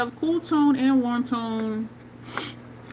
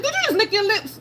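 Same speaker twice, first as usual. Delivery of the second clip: mock yell; 11 semitones higher, 3 dB louder than usual. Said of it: "I didn't mean to yell at you".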